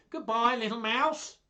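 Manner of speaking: high, loud, hurried-sounding farewell; alarmed fox. Acted. Fox fleeing the Gruffalo, high alarmed goodbye. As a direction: call goodbye in fright.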